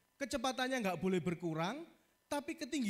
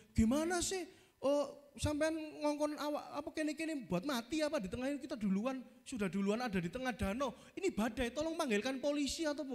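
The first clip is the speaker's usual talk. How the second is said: panicked disciples; 7 semitones higher than usual. Pretend. Frightened disciples phoning Jesus in the storm, higher panicky complaint. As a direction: whine at him as if you're sinking.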